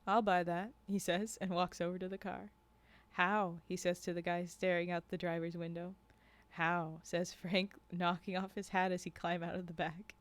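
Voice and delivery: measured read-aloud with lightly voiced dialogue; story narration. A narrator's reading. Narrator reading a tale of guides and hunters to a stream, storytelling. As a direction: read it as a first-person storyteller.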